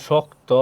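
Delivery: শক্ত sounded out slowly as "shok-to"; careful teacher's model of শক্ত ending in a closed o; pronunciation demo. Shown as a demonstration. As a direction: draw out শক্ত, rounding the final vowel to o. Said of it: "শেষে উকার হয়েছে কিন্তু".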